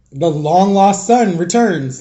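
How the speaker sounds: slow, ironic biblical pronouncement; mock grand announcement. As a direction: announce it slowly like a sarcastic proclamation. Mock announcing brother's return.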